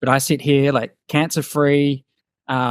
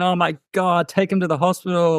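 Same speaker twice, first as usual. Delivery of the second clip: mock panicked parent; 5 semitones higher than usual. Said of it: "One of them, like, goes".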